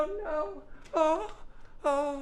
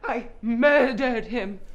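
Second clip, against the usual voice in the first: slow giggling admission; laughing confession; 4 dB louder, slower than usual. Acted. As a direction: crack up confessing.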